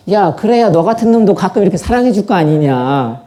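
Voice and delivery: God's reply said through a laugh; laughing punchline. Retold or imitated. God teasing Adam, laughing reply. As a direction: chuckle the punchline.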